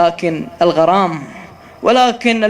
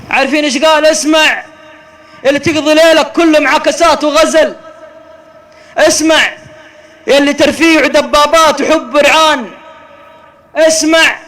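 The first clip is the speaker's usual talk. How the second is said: loud, high calls to listen; preaching at full force; 7 semitones higher, 5 dB louder than usual. Real, not acted. Preacher warning the youth in the crowd, shouting. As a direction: summon the sinners, shouting.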